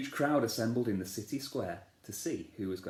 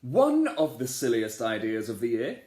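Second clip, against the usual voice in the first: louder royal announcement; king's speech; 6 dB louder than usual. Acted. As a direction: announce to the crowd. King continues speech.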